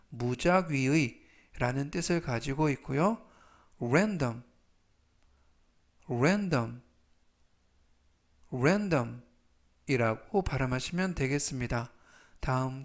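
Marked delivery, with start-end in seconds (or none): 3.8-9.2 section said slowly and clearly; slow model pronunciation. Shown as a demonstration. Teacher reading vocabulary aloud for review, slow and clear. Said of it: "제가 천천히 세 번씩 읽어드리고요".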